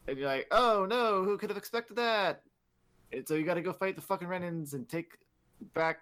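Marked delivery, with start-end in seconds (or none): 0.5-2.4 higher, louder sarcastic shock; mock surprise. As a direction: feign shock at the utterly predictable. Mock surprise at predictable mutiny.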